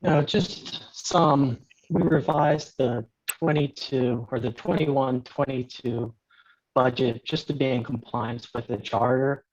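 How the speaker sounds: glitchy underwater phone audio; choppy, garbled bad connection; breaking up call. Real, not acted. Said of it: "your audio is breaking up".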